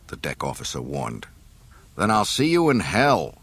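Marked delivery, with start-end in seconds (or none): 2.0-3.3 grunted. Acted. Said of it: "grunted Han".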